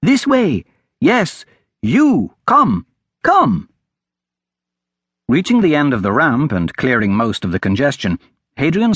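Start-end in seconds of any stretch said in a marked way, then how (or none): 0.0-3.7 high, urgent beckoning in short bursts; calling out. Acted. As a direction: call them over from across the pier. Boy beckons through crowd.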